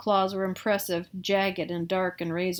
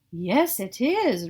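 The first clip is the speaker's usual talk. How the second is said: slow, drawn-out silky voice; slow silky reply; 4 dB louder, much slower than usual. Acted. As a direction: stretch it out, prim and proud. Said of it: "Ralph replied".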